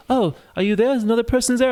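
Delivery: put-on very high British child voice; British kid. British kid calling to another player, high childlike British voice. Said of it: "like, British kid".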